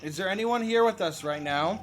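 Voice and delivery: talking to a ghost. Real, not acted. Spirit box session, calling out.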